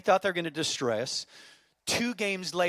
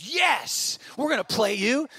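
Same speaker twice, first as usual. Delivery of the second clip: high, bright eager accept; keen dad taking the dare; eager yes; 7 semitones higher, 5 dB louder, slower than usual. Retold or imitated. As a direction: jump at the challenge.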